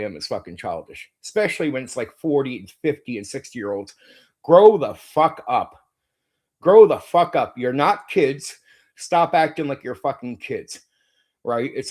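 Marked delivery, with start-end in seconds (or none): 4.4-7.6 loud, slow furious command; angry shout. Real, not acted. Ranting streamer yells at his critics, furious. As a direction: yell it at the critics.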